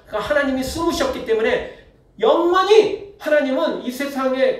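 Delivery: big talk. Retold or imitated. Preacher voices the wicked denying that God cares, mock big talk. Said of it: "이렇게 큰 소리 칩니다".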